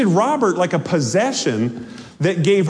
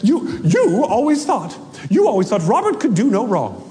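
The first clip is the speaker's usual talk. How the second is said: ranting ghost wife. Acted. Female ghost complaining to Hilda about her husband, aggrieved rant. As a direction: play a wronged wife's theatrical complaint. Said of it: "uninterrupted rant about her right".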